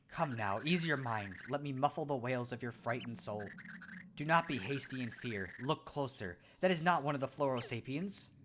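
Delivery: soft, measured sage voice; calm wise pixel. Acted. Pixel answering the startled Cragnon, calm sage voice. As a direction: speak like a serene little oracle.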